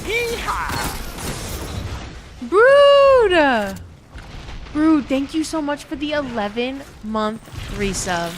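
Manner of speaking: hammed-up high Southern yeehaw, loud on "Brood!"; Southern accent. Streamer thanks Brood for resub, mock Southern accent. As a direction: play a cartoon Southern cowgirl thanking a subscriber. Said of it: "I need to do ... the Southern accent".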